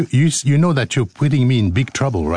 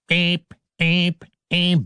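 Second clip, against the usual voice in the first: mimicked alarm beep; 3 semitones higher, slower than usual. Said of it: "the fire alarm sounded".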